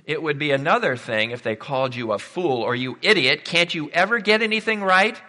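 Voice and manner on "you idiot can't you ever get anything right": loud, higher, angry telling-off; angry boss yelling. Retold or imitated. Boss yelling at a worker who got it wrong, loud and angry. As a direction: berate the employee like a furious boss. Imagined boss berating an employee.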